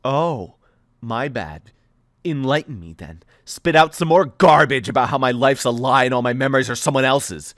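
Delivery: drip contempt under the politeness; sarcastic sneer. Acted. Thea sneering at Aiden, sarcastic.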